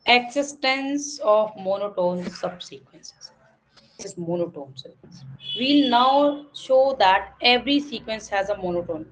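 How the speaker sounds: slow, even reading of a theorem; slow textbook reading. Acted. Teacher reads theorem to students slowly. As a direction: read each word out slowly for the class. Reads section heading and text.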